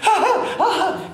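high, gasping mock panic breaths; hammed-up frightened gasps of a ten-year-old; imitating hyperventilating. Daughter panicking at the approaching barge, mock gasping. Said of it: "Jillian is now hyperventilating".

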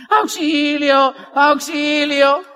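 long-drawn imitation distress call; mock cry for help. Speaker shows listeners how not to be from January, mock cry for help. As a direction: stretch each word out in a mocking wail. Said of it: "estés así".

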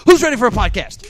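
pumped-up crowd call. Shown as a demonstration. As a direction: rev up the audience. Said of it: "A little bit better".

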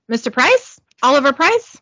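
mild questioning call, rising at the end. Acted. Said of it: "knocks on the door and calls out".

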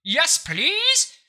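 a rich snob in a monocle demanding a t-shirt; snooty aristocrat. Pretend. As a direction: sniff at the peasants like a top-hatted snob. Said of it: "tuxedo ... top hat and a cane".

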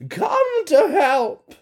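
very high calling cry; blizzards screaming. Acted. Blizzards crying out to their witch mother, very high. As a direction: call out shrilly for mother. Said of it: "they all screamed".

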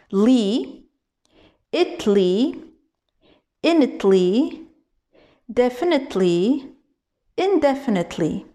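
li, itly, initly, definitely, indefinitely, slowly lengthened piece by piece; built up from the end. Shown as a demonstration. Teacher redoing the backwards drill of indefinitely, slow pieces with pauses. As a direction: grow indefinitely backwards from li, each piece drawn out and lifted. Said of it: "mais je le reprends".

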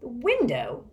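high, incredulous echo; surprised. A narrator's reading. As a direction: repeat it as a startled question. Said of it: "as surprised as Mister Curtin".

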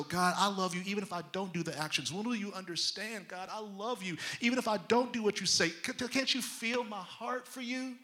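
soft, quick plea, rising at the end; pleading. Acted. Believers excusing themselves to God, softly pleading. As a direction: plead softly, pitch climbing. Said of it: "what we wanna do is go".

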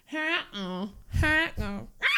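high squealing bird screech; pterodactyl shriek. Shown as a demonstration. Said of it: "I'll give you a great example".

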